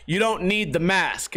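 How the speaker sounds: slow, spaced-out clarification; spelling it out. Retold or imitated. Clerk clarifies to confused customer, slow and spelled out. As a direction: repeat it slowly so it sinks in. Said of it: "I didn't understand. He's like".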